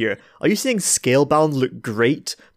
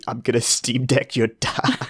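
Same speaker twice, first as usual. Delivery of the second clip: mock tough guy; slower than usual. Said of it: "the masculine urge to fucking say".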